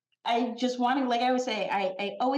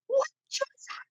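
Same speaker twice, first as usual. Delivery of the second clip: stunned. Retold or imitated. Retelling shock at being tagged.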